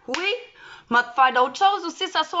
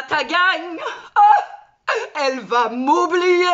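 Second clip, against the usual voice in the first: hammed-up whimper; mock crying; 3 semitones higher, slower than usual. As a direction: pretend to sob, half laughing. Mock despair about being forgotten.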